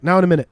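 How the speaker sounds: "Now in a minute" run together as one word. Shown as a demonstration. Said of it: "gotta be said as one word".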